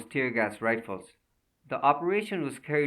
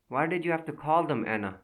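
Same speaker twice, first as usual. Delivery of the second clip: pleading; 4 semitones higher than usual. Acted. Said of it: "he pleaded".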